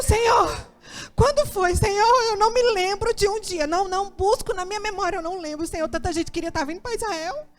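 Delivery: panicked prayer. Retold or imitated. Terrified on the plane, begging God in a high frantic voice. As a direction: beg the Lord in rising panic.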